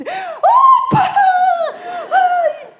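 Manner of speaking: high loud delighted cry; child's happy exclamation. Retold or imitated. The girl who cried hears Jesus rose, loud high delight. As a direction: burst out like a relieved little girl. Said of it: "essa menina que chorava tanto disse".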